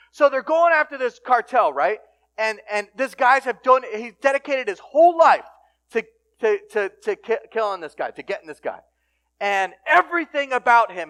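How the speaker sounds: loud, urgent sermon storytelling; fervent preaching. Acted. Preacher recounting a cartel manhunt, fervent. Tells the story at full force.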